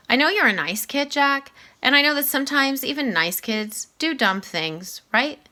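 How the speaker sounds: a principal gently laying down the rules; Mister Tushman. Acted. Voices Mr. Tushman.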